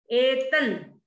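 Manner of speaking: एतन with a held double n. Shown as a demonstration. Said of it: "एतन double ना है". (एतन में दोहरा न)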